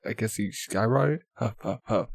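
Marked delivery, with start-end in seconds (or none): 1.3-2.1 soft spoken puffs, softer than usual; mock panting in three short puffs; imitated huffing. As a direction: mimic a climber puffing. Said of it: "He's, like, out of breath".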